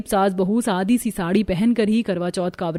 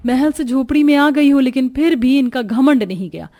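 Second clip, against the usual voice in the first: mocking taunt; 4 semitones higher, 4 dB louder than usual. Rich sister-in-law taunts poor family.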